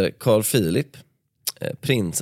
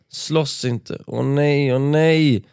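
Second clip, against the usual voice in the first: despairing plea; 4 semitones higher, much slower than usual. Acted. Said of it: "det gjorde Sofia ännu mer förtvivlad".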